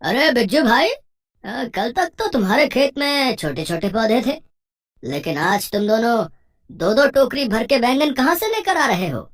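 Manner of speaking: loud, high-pitched astonished friend; Santram. Acted. Friend quizzes Bijju on the road about the eggplants, loud astonishment. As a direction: call out high and loud, full of surprise. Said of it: "बिज्जू का दोस्त संतराम".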